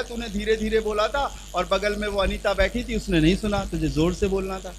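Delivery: a soft, mild rebuke in God's voice; voicing the Lord. Preacher imagines the Lord chiding him, softly and mildly. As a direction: lightly voice the Lord scolding. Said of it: "एक दिन खुदावंद मुझसे बोलेगा".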